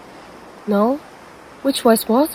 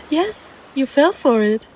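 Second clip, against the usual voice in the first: gloating; 4 semitones higher than usual. Acted. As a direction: savor the victory, drawn out. Siren gloats over victim.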